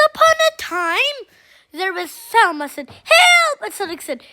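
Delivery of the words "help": high, loud cry for help; shouted help. Acted. Selma stuck, shouting for help. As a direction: yell for rescue.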